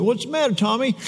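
a hint of a worried mom; concerned parent. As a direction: ask the crying child kindly. Parent voiced in story.

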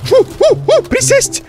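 very high panicked orders; frantic duck-and-cover call. Real, not acted. Panicked command dive for cover.

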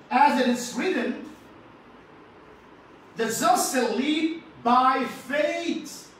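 scripture reading. Acted. Reads scripture aloud.

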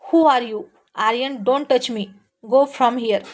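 lightly acted scornful outburst; narrated yell of anger and disgust; furious, contemptuous. Girl ordering the boy not to touch her, mock-furious. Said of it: "राग आणि तिरस्काराने ओरडली".

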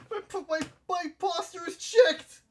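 high, light, playful voice; high mock announcement. To chat, a playful high announcement of his posture.

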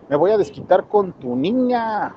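slow, drawn-out mock villain voice for "me voy a desquitar con tu niña"; a hammed-up thug threat, then taken back; wrong menacing voice. Shown as a demonstration. Narrator tries a villain's threat, slow mock menace. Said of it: "Ah, no, ese no habla así, ese habla normal".

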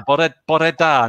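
"Bore Da" said as Welsh, bo-reh dah; attempted Welsh pronunciation. Shown as a demonstration. Host corrects the pun toward real Welsh good morning, Welsh pronunciation. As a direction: try "Bore Da" with two syllables in "Bore".

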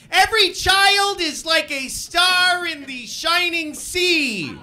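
high, slow, loud mock dreamy proclamation; mocking sappy gushing. Mocking people who idealize every child, sappy gush. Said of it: "There's people that are like".

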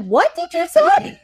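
high, loud, drawn-out disbelief; incredulous. Retold or imitated. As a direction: act out a baffled demand to hear it repeated. Prince overhears her, acted retelling.

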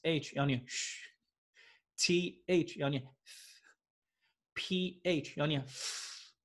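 一个字母一个字母慢慢地念; 像老师示范一样放慢; 慢慢念出拼法. Shown as a demonstration. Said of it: "不是，不是，C H要念ch". (老师慢慢示范念"sh"和"f")

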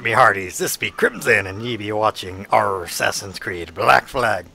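hearty pirate captain greeting. Pretend. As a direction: growl it like a swashbuckler. Pirate-style channel intro.

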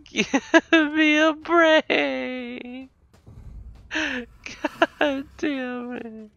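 slow, drawn-out exasperation; dragging each word out in defeat; exasperated groan. Real, not acted. Keeps getting killed by fridge.

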